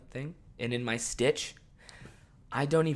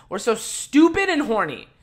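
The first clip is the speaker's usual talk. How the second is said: louder sarcastic repeat; 8 semitones higher, 6 dB louder than usual. Retold or imitated. Sarcastic self-mockery.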